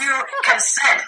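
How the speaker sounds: laughing through the word "consent"; laughing correction. Real, not acted. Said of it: "or confess".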